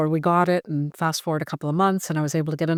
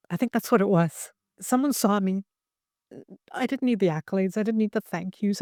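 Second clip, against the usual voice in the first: tearful; 4 semitones higher than usual. Real, not acted. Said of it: "I'm sorry I'm crying".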